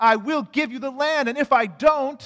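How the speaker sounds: grand, loud booming voice. Retelling the covenant scene, God speaks to Abram; booming voice of God. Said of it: "as God's booming voice says".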